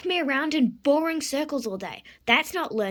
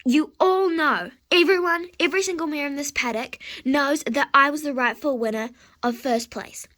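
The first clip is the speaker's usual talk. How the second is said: loud, indignant confrontation; indignant outburst; 5 dB louder than usual. Acted. Sore loser confronts the two winning horses, indignant outburst.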